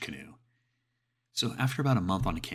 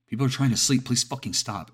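loud, higher, angry shout through a door; calling out; 7 semitones higher, 8 dB louder than usual. Acted. Roommate pounding on the door at night, angry shout. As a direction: yell it at the locked door to make them stop.

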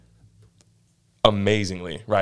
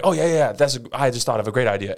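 know-it-all; 2 semitones higher than usual. Retold or imitated. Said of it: "acting like a know-it-all".

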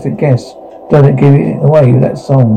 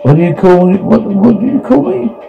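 indignant question; 6 semitones higher than usual. Acted. Character challenges a taunting name.

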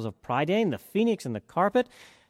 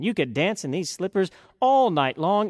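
ordinary delivery, nothing marked

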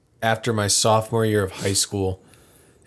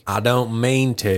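slow, teasing Southern drawl; playful put-on Southern speech; mock Southern accent. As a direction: echo it with a Southern twang. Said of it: "especially people with a Southern accent".

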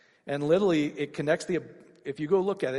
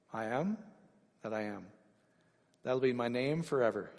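voice of God; 3 semitones lower, 5 dB quieter than usual. Retold or imitated. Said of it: "what is God's response".

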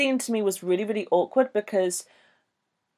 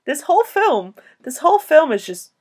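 laughing disbelief; 7 semitones higher, 4 dB louder than usual. Real, not acted. Cracking up over bizarre film moment.

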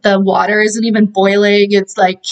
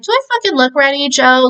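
snippy retort; 5 semitones higher than usual. Retold or imitated. Marla snaps at the officer.

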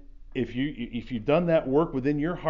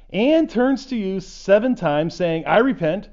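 louder and higher, building line by line; emphatic scripture reading; 4 semitones higher, 8 dB louder than usual. Shown as a demonstration. Pastor reading Jesus' command to forgive, building loudly. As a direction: proclaim it, gathering force each phrase. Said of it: "it was an emphatic".

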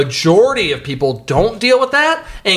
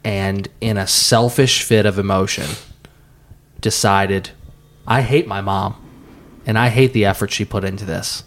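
solemn storyteller; 6 semitones lower than usual. Acted. Slow dramatic retelling of story.

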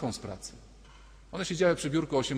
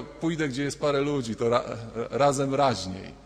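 quoting churchgoers; 3 dB louder than usual. Retold or imitated. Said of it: "Wielu ludzi powiedziało".

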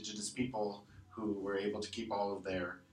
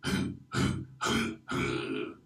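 short breaths; 11 semitones lower than usual. Shown as a demonstration. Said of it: "and then slowly add the vocals".

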